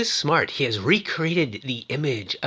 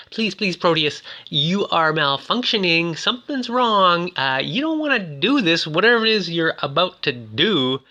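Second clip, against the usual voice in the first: higher-pitched mock pleading; freaking out; 5 semitones higher than usual. Susan begging the malfunctioning computer to stop, freaking out. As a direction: act out a mildly panicked plea. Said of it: "She is freaking out".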